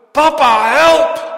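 very loud, high-pitched desperate cry; child crying out. Acted. Child in mortal need screams to father for help. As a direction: scream for help at full force. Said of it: "een kind roept uit".

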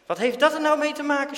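loud, high, fast snap; snapping. A narrator's reading. Dirk snapping at Jan over Daantje's money. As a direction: bite the words off angrily. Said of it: "snauwt Dirk".

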